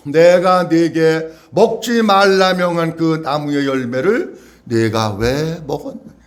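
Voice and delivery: low, drawn-out scripture question; lightly voiced God. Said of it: "그리고 또 물어보셔요". (낮고 느리게 묻는 하나님 말씀)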